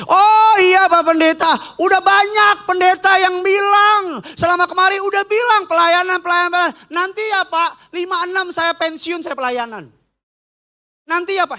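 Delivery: hammed-up, loud and high at first, easing off; mimicked brush-off. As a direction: imitate a regional head putting off the pastor. Acts out regional head's brush-off.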